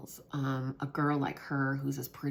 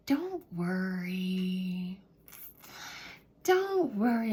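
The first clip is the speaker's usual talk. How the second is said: put-on girl reassuring; 4 semitones higher, much slower than usual. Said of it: "she would go".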